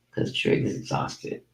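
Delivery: whispered, drained, almost no voice; exhausted whisper. Real, not acted. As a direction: breathe it out like you're wiped out. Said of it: "I'm exhausted".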